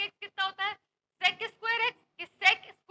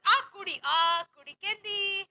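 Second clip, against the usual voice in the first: Punjabi phrase; slower than usual. Shown as a demonstration. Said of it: "मुंडे is for boys".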